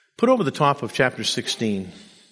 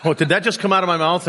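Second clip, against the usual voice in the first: a real chuckle through the words; laughing at himself; 5 semitones higher, faster than usual. Real, not acted. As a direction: laugh off the slip. Laughs at his own slip.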